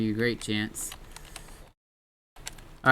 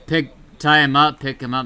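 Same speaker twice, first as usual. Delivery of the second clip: urgent order; 3 semitones higher, 6 dB louder than usual. Real, not acted. Urgent orders, herd coming.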